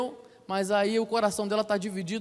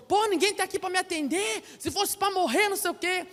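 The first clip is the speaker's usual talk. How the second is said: high, whiny exasperated voice; mock desperate complaint; 9 semitones higher than usual. Desperate patient waiting at the clinic, high mock-whiny despair. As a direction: moan about being ignored, pitched way up.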